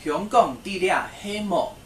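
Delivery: 慢速示范发音; slow model sentence. Shown as a demonstration. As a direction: sound out each word for learners. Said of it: "可以说".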